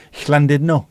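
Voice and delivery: "Llandudno" with the Welsh Ll hissed at the front; Welsh pronunciation. Shown as a demonstration. Asking a Welsh nationalist if it's right, Welsh Ll. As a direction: pronounce "Llandudno" the Welsh way, breathy Ll. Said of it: "How would you pronounce it".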